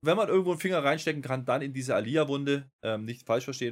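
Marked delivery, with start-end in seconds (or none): 1.4-2.7 Wunde leaned on slowly, a pointed jab; stress on Wunde. Acted. Poking fun at Aliyah, stressing Wunde with a slow jab. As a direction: dwell on the word Wunde. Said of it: "Mit Betonung auf Wunde".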